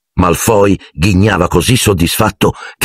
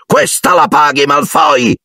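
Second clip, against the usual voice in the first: higher, furious shout; angry shout; 8 semitones higher than usual. Acted. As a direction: threaten Malfoy, wand raised. (grido furioso)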